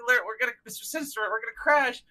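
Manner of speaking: high, rushed mock alarm; Clive. Clive radioing Sinister about the crash, mock panic. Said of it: "Clive is just fucking pleading".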